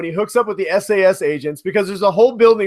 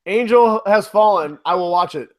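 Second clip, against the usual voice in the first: put-on drunk Harrison Ford. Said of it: "You're drunk again, Harrison".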